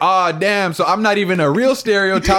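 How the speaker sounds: dismayed inner voice. Retold or imitated. Self-deprecating inner voice.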